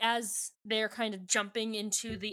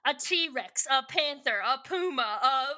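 mock-dramatic countdown; 3 semitones higher, 5 dB louder than usual. Continuing joke predator countdown.

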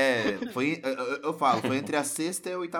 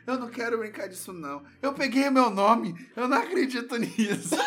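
imitating a child's tearful whine, higher and louder; a mock tantrum from a kid on the verge of tears; whiny crying kid; 10 semitones higher, 6 dB louder than usual. Boy at the gift exchange, imitating his whiny near-crying protest. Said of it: "e eu começava a chorar".

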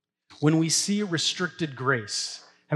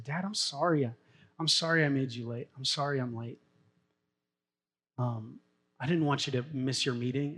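tender apology; 2 semitones lower, 6 dB quieter than usual. Retold or imitated. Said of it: "she turns in this tender voice".

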